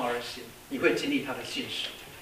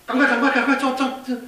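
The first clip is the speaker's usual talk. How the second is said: higher, louder hurried urging with a laugh; frantic urging; 9 semitones higher, 5 dB louder than usual. Acted. Pilot urging the mechanic to act fast, frantic higher laughing urging. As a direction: hurry him comically.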